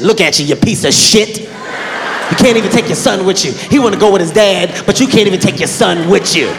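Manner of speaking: a hint of a scornful wife; mocking wife taunt. Wife taunting him as he storms out, mildly mocking. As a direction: sneer it as a jab. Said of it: "women try to use kids as ammunition".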